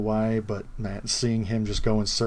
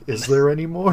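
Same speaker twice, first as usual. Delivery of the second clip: higher, louder hopeful Pooh; Pooh quote; 5 semitones higher, 6 dB louder than usual. Retold or imitated. Friend quoting Pooh asking for more honey, higher and louder. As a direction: ask it eagerly like Pooh. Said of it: "And he's like".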